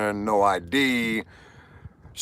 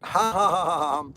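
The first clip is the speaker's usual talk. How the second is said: laughing; 6 semitones higher than usual. Real, not acted. Laughing after the punchline.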